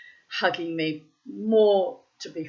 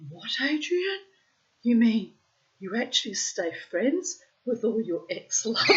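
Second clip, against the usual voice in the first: higher, amazed questioning; incredulous; 4 semitones higher than usual. Retold or imitated. Asking Adrian about his exes, amazed and incredulous. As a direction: sound shocked he keeps his exes close. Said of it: "I said".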